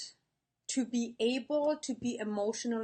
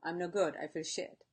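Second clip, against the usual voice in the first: mock gloomy self-talk; 4 semitones lower, 4 dB quieter than usual. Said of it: "wake up in the morning and you say".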